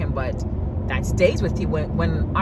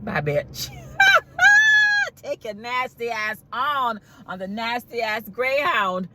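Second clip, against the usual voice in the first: laughing, high mocking goodbye; laughing at sending him away; gleeful laughing sendoff; 5 semitones higher, slower than usual. Real, not acted. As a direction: cackle while waving him off.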